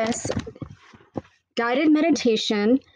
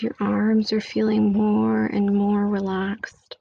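whisper. Acted. Whispered meditation line.

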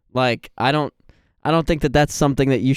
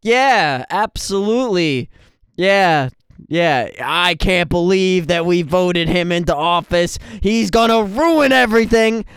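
fake agreement; 4 semitones higher, slower than usual. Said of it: "And I'm like".

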